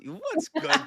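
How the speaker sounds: high, bright call-out to a friend, with a laugh; laughing hello to a friend who just showed up; excited greeting. Real, not acted. Greeting a friend joining the stream.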